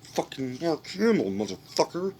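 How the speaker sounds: high, strained mock exclamation; excited recognition. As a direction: blurt it out as if you just recognized him. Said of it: "and you're like".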